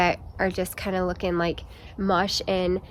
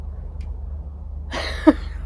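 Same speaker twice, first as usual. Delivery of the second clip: breathless laugh; 4 dB quieter than usual. Real, not acted. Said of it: "I'm out of breath".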